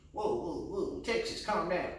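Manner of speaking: high-pitched placating voice; alarmed onlooker. Acted. Onlookers trying to settle down Texas, high-pitched pleading. Others pleading with an armed Texan.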